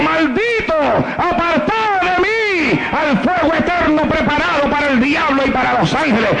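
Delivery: understated divine condemnation; mild shout. A narrator's reading. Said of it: "le gritó".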